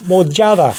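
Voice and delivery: "Mojada" with the last d softened to th; slight TH D. Shown as a demonstration. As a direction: soften the final D in "Mojada" towards th. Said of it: "you hear the D, but you'll also have a slightly".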